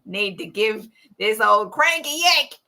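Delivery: put-on lightly done Australian accent; an Australian dad grumbling, played for laughs. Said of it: "I have to do an Australian accent for this".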